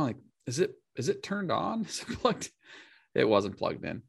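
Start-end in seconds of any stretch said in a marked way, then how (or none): 0.5-2.5 mock condescending. IT people quoted.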